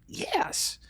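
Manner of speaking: put-on tiny breathy whisper from a toddler; child's whispered yes to dad. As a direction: whisper it like a shy two-year-old. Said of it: "You were like".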